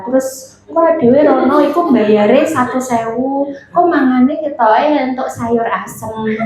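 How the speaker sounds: low, level, droning small talk; monotone. Shown as a demonstration. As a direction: drone through it with barely any rise or fall. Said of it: "ngomong kita cuman datar aja". (nada datar, monoton)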